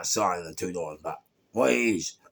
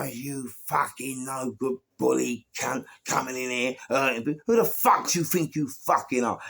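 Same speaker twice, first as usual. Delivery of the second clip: raised-pitch rant at a bully; retold telling-off; 3 semitones higher than usual. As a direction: act out laying into a bully.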